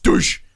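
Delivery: loud mock thud noise; imitated crash as he hits the ground; impact sound. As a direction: make the sound of slamming down. Imitating the sound of his fall.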